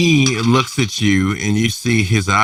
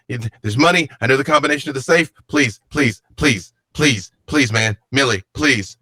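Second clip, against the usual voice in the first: frantic begging. Acted. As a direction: plead for your life at gunpoint. Rory begging for his life.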